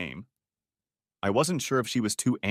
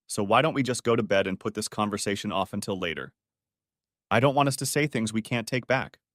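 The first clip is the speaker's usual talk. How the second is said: comforting. Acted. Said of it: "Her voice was comforting".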